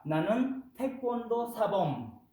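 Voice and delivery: 나는 태권도 사범 said quick and crisp; model sentence. Shown as a demonstration. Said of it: "O acá". (나는 태권도 사범 como ejemplo)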